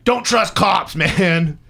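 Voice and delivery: high, loud declaration with a laugh; emphatic call-out. Real, not acted. Storyteller's closing moral about cops, loud and laughing. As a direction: proclaim it as a laughing punchline.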